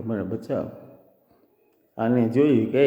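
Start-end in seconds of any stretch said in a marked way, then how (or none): 0.0-0.7 soft, mildly pained plea; moaning plea. Acted. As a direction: plead weakly for rescue, understated. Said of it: "કણસતી હતી કે". (હળવેથી કણસતી વિનંતી)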